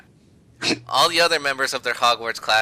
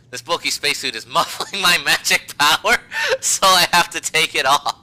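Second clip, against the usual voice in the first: hint of Hermione; 6 semitones higher, 5 dB louder than usual. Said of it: "she said".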